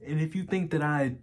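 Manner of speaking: halting, earnest plea broken by long pauses; BoJack Horseman. Acted. Asking Diane if it's too late for him, halting and pleading. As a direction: vulnerable confession, searching for reassurance.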